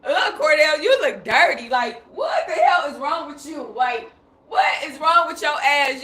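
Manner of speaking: disgusted half-shout at the corpse; mock disgust. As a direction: recoil and scold the dead friend, hammed up. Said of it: "I'm like".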